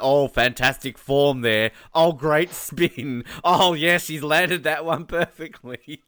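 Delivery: mock sports commentator talking up a run; lightly acted commentator gushing, drawn-out words; hyped-up commentator. Commentators straining to talk up a poor run, mock-enthusiastic. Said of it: "trying to talk her run up".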